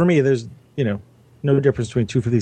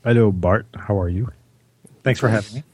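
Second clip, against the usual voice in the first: low-pitched radio-voice greeting; 2 semitones lower than usual. Real, not acted. Guest greeting the host on a podcast, very low voice. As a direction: drop your voice low to say hello. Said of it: "You got very low all of a sudden".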